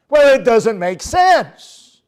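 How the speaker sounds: high, loud pleading why; whiny objector. Retold or imitated. Preacher voicing a member demanding reasons, high and whiny. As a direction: whine like a stubborn churchgoer. Mock dialogue with congregant.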